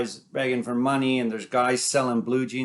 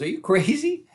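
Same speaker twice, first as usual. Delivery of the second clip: high, loud mocking disbelief; incredulous city brother; 4 semitones higher, 4 dB louder than usual. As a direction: scoff at his brother over the traffic. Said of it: "laughs at him and says".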